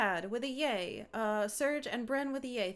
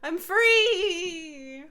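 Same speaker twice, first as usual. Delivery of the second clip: relieved cry; 7 semitones higher, 10 dB louder than usual. Real, not acted. Relief after game ends.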